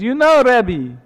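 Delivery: put-on high, accented water carrier; contented water carrier. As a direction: open the reply in a lifted character voice. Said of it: "he says".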